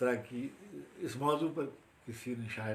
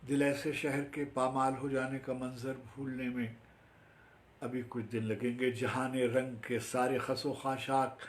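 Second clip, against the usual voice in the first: lilting verse that gradually lifts; flowing Urdu poem recital; poetry recitation. Acted. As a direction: stretch the final phrase of the stanza.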